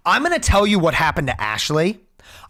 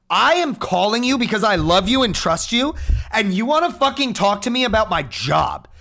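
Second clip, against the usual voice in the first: raised angry voice; loud, heated complaint to his dad; retold yelling at dad; 3 semitones higher, 5 dB louder than usual. Son yelling at his dad on the phone, loud and angry. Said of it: "I literally started yelling".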